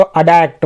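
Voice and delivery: अडैप्ट with the T voiced as D; American-style D for T. Shown as a demonstration. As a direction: say अडैप्ट with a D sound in place of T. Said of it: "टी को ड उच्चारित कर रहे हैं". (अडैप्ट में ट की जगह ड का उच्चारण)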